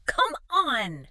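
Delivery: high, punchy cry of triumph; athlete's victory shout. Acted. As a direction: shout it like a player winning the point. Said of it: "they shout".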